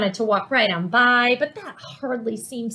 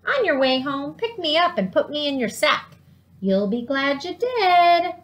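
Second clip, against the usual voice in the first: higher, coaxing cactus voice, slowing at the end; talking cactus; 5 semitones higher than usual. Acted. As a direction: sweet-talk Granny as a prickly plant. Talking cactus asks a favour.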